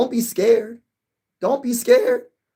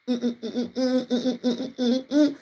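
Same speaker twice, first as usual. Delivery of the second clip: gloating laugh; 6 semitones higher, 6 dB quieter than usual. Acted.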